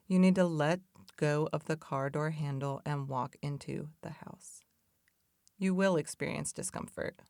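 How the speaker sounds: measured, even storytelling read; story narration. Acted. Reading her car-in-the-garage metaphor aloud to viewers, calm parable delivery. Reads metaphor before chatting.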